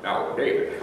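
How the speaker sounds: a light Scottish star voice; Sean Connery impression. The star hiring the detective, a low lazy Scottish voice. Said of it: "he walks up to me and he says".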